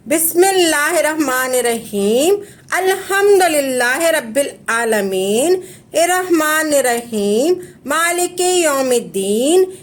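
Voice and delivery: lightly chanted Fatiha, even and devout; Quranic recitation. Shown as a demonstration. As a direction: recite it the way they should read it. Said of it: "और ऐसे पढ़ना है".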